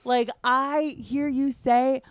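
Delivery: high, drawn-out mock-distressed plea; pleading protest. Comic begging a friend to stop joking about nerves, pleading. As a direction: beg them to cut it out, pitch way up.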